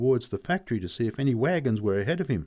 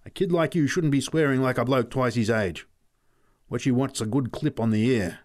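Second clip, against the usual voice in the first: put-on louder scolding of the boy; 4 semitones higher, 4 dB louder than usual. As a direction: tell the kid off.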